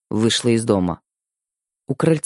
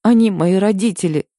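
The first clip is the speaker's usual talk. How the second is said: high, tearful plea with a catch in the voice; wife sobs to her husband, defending her parents, tearful; sobbing; 7 semitones higher, 3 dB louder than usual. A narrator's reading. Tearful plea, voice rising. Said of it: "всхлипнула я".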